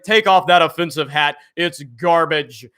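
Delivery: a lightly prim scold, slowing at the end; mildly sniffy, disapproving tone; proper Jeremy voice. Acted. Streamer rephrases the line in a lightly prim proper Jeremy scold. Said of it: "I can't get the proper Jeremy voice".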